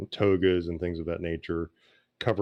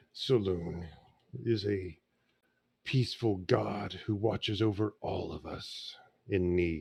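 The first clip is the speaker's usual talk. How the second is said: soft, rough-sounding put-on voice; 5 dB quieter than usual. A character offering a donation for a shrine to saloon, rough voice. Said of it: "with a rough voice".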